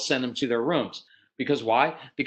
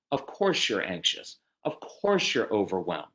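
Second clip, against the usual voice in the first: calm validating; 4 semitones lower than usual. Shown as a demonstration. Parent calmly validating an anxious child's feelings. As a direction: say it like you truly understand. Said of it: "this is a great phrase".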